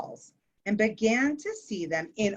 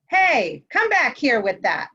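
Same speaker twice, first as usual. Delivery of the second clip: louder, calling after her down the hall; 3 semitones higher, 5 dB louder than usual. Acted. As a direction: shout for her to bring it back. Ramon chasing sister, calling out.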